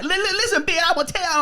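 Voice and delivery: high, hammed-up imitation of a Black accent; mock heavy Black accent. Sorority girls faking a Black accent mid-fight, high mock accent. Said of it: "using this heavy black accent".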